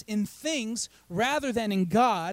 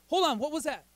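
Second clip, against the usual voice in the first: higher-pitched, interrupting himself; startled question; 5 semitones higher than usual. Pretend. Preacher acts out hearing a noise from the valley, startled. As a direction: break off as if you just heard something. Acting out hearing a distant sound.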